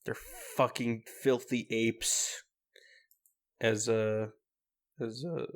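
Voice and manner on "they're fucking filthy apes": slow, sneering villain sneer; Frieza. Retold or imitated. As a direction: sneer it slowly like a cartoon villain. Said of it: "as, uh, Frieza would say".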